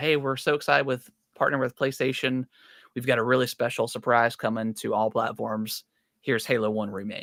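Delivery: normal talking voice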